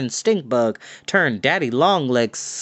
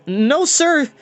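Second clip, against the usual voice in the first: panicked refusal; 13 semitones higher, 4 dB louder than usual. Acted. Boys refuse while fleeing.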